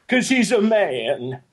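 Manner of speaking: mock sarcastic voice. Mocking pay-gap joke.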